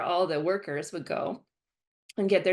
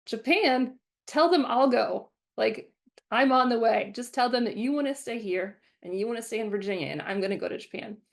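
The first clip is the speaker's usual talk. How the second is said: higher, louder, jumping at the chance; eager excitement; 5 semitones higher, 4 dB louder than usual. Retold or imitated. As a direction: grab the offer before anyone else can. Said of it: "And I was like".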